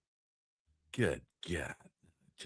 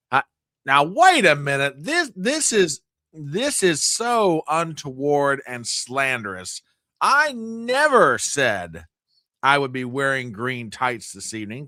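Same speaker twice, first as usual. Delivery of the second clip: mock indignant Irish; 4 semitones higher, 4 dB louder than usual.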